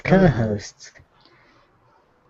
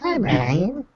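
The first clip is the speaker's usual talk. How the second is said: mixer voice effect; 7 semitones higher than usual. Pretend. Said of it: "My voice sounds a little strange".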